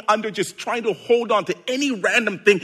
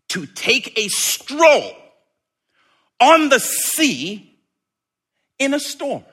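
slow, breezy stroll; 6 semitones higher, 4 dB louder than usual. Acted. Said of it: "like it wasn't even hard".

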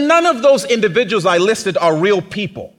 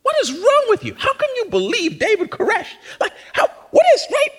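high, mocking, incredulous voice; mock disbelief; 14 semitones higher than usual. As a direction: scoff at them in a high squeaky voice. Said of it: "We're rolling our eyes like".

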